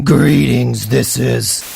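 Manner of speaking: rough, creaky, gravelly voice. A voice comes across on a message being played: deep and gravelly. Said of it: "It's deep and gravelly".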